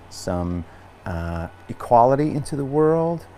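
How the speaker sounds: a lightly voiced meditative guide, lifting on each option; guided intention. Yoga teacher guiding the class to set an intention, light meditative voice. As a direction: gently offer choices, unhurried.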